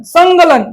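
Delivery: ng from the back in संकलन; nasal ng sound. Shown as a demonstration. Teacher isolates the nasal letter, संकलन with ng. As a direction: say संकलन as "sangkalan". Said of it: "अड़ा का उच्चारण".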